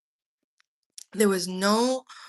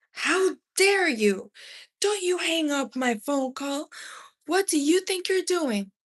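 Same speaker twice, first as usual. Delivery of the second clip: furious mother; 8 semitones higher than usual. A narrator's reading. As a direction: explode at him in disbelief. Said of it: "My mom lost it".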